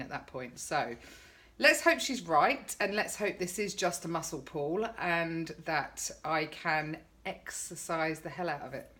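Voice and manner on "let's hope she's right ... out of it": dry sarcastic hope. Acted. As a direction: say it with heavy irony. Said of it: "I'm being quite sarcastic".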